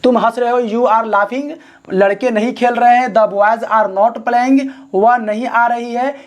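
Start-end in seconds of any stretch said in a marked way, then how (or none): 3.1-4.7 very slow, word by word; dictating slowly to the class; slow dictation. Shown as a demonstration. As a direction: spell it out slowly for students. Dictating the English translation.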